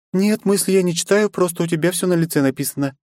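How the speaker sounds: put-on high, chattering bubbly young woman; high lively girlish chatter. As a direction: rattle it off excited and girlish.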